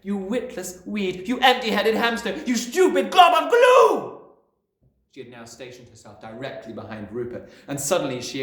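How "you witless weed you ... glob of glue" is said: building bellow. A narrator's reading. Headmistress insulting a boy, building to a bellow. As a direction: pile on insults, louder each time. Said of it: "the Trunchbull bellowed".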